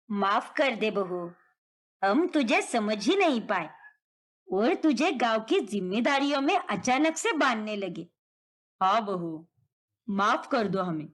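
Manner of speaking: a hint of a contrite in-law asking forgiveness; apologetic in-law. In-laws ask the daughter-in-law's forgiveness, lightly voiced, apologetic.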